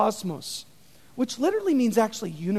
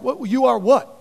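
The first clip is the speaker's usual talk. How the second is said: shocked crowd; 4 dB louder, faster than usual. Retold or imitated. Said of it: "all the people are like".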